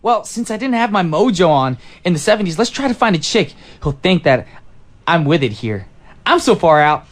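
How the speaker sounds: retro seventies guy. Acted. Time traveller from 1977 hits the disco, lightly voiced groovy dude. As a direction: play a jive time traveller from 1977 at first. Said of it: "that was the character I was going for".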